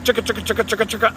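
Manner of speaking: keyboard typing noise. Retold or imitated. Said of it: "on the keyboard".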